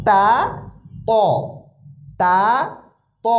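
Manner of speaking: light, thin তা against heavy, rounded ত; thin-thick contrast. Shown as a demonstration. Teacher drilling two confused letters, thin তা then thick ত. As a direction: alternate open thin তা with round-mouthed thick ত. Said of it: "ত আর তার ভিতরে উচ্চারণে পার্থক্য আছে".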